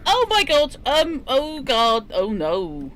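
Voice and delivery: rising panic, high and loud; startled gasping alarm. Real, not acted. Sudden alarm during game.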